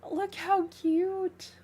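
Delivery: high, slow coo; delighted cooing. Real, not acted. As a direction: stretch it out, charmed. Admiring cute gift on stream.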